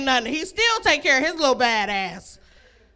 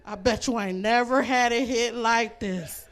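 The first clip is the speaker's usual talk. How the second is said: mock boastful man; 4 semitones lower than usual. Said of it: "He gonna be like".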